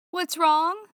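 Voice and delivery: anxious shout; alarmed call. Acted. Calling to yelping dog.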